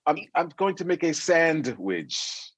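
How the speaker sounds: slow, every syllable pronounced, "sandwich" with a clear D; mock-precise diction, stretching out "sandwich" as san-d-wich; a singer's over-enunciation. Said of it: "Carol Riddick pronounces every, every syllable".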